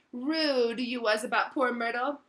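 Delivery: slow, teasing and mischievous; sly poltergeist. Acted. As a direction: drag it out slyly. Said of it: "He took a deep breath".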